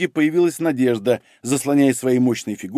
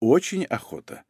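softer, confiding emphasis; lowered tone; 5 dB quieter than usual. Acted. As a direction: keep the voice dropped and quiet. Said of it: "чуть понизила тон Надежда". (тихо, пониженным тоном)

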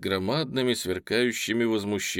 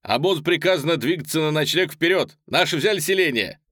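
high, loud announcement; elated messenger's cry; joyful shout; 7 semitones higher, 6 dB louder than usual. A narrator's reading. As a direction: call out good news to everyone. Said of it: "радостно крикнул".

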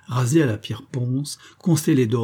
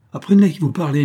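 haughty retort; 5 semitones higher, 6 dB louder, faster than usual. Acted. Quarrel at gaming table.

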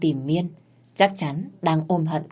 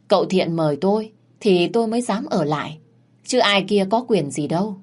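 snide retort; 3 semitones higher than usual. Acted. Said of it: "chép miệng, đáp lại".

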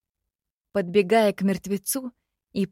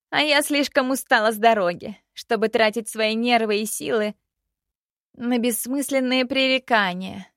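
put-on higher, louder annoyed young woman; irritated princess; 5 semitones higher, 4 dB louder than usual. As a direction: vent about the sharp-tongued rival. Princess complains, tired and irritated.

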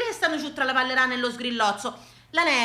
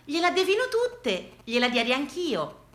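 candid reply; 3 semitones higher than usual. Retold or imitated. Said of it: "lei m'ha risposto candida".

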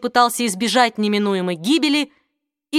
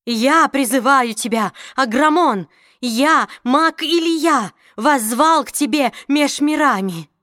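commanding call; 4 semitones higher than usual. Acted. Mage boldly calls the demon.

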